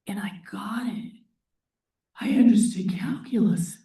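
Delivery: awed whisper; hushed reveal. Retold or imitated. Teacher recalling his calculus epiphany, whispered in awe. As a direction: breathe it like a secret revelation.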